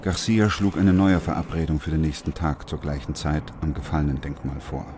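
even, measured narrator read; story narration. A narrator's reading. Narrator sets the scene for listeners, steady storytelling. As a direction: tell it like a radio play narrator.

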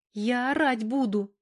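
a mild plaintive sob; plaintive whimper. Acted. Valka, carried off again, whimpers a weak threat. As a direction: whimper it pitifully, half a threat. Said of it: "жалобно всхлипнула она".

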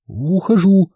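a hint of nervous fluster; лепеча; flustered babble. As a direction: stammer it out backing away. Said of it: "залепетала Суханова".

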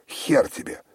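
high loud defiant cry; defiant shout aloud. A narrator's reading. Olga defies her sister aloud, high loud defiant cry. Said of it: "повторила это вслух".

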